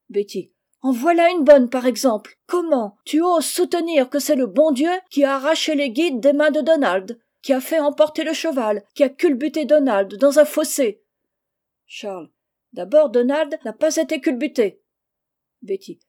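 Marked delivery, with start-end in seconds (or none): 0.8-11.0 loud, high outraged scolding; indignant retort. A narrator's reading. Scolding woman rejects the lad's excuse for the accident, indignant. 12.7-14.8 louder, higher correction; irritated objection. A narrator's reading. Lad corrects his accuser about the accident, irritated. Charles contradicts Betty in quarrel.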